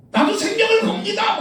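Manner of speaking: preacher mocking a boastful vow; mock zealous vow. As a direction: parody a showy believer swearing his life. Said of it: "막 이러고 싶은 거야".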